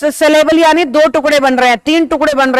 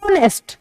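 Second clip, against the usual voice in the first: ऑनेस्ट with a long held ऑ, then a softer नेस्ट; split in two; 3 semitones higher, 6 dB quieter than usual. Shown as a demonstration. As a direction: break ऑनेस्ट into two clear chunks, "ऑ... नेस्ट". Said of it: "दो टुकड़ों में बट रहा है ना शब्द बोलते हुए". (ऑनेस्ट को दो हिस्सों में खींचकर बोलें)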